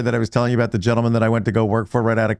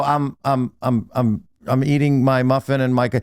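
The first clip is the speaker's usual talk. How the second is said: retold nervous stammer, slightly raised pitch; stammering excuse; 2 semitones higher than usual. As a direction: stumble through an excuse, then get cut off. Caught new hire stammers excuse.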